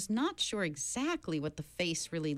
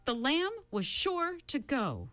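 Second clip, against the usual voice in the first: shouted rhyme; 9 semitones higher than usual. Acted. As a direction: shout the rhyme to block the chant. Shouting rhyme against chant.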